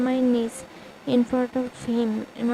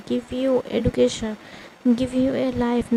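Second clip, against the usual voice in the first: scolding sister; 4 dB louder than usual. Acted. Sister scolds narrator harshly.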